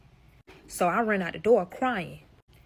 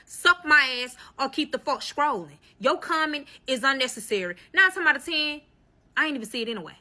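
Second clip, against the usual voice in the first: telling off haters; 5 semitones higher than usual. Real, not acted. Addressing haters in comments, raised and combative. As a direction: snap at the haters.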